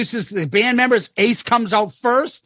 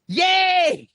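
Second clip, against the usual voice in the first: excited yay; 10 semitones higher than usual. Retold or imitated. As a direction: cheer it out like a delighted host. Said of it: "Paul goes".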